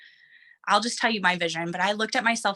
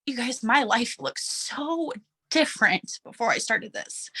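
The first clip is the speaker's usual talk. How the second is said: getting emotional. Real, not acted. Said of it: "sorry, I'm gonna get emotional".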